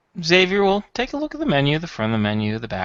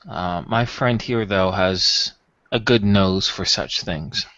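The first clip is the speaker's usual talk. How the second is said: measured and careful, picking words; lightly played smooth buyer; discreet customer; 3 semitones lower than usual.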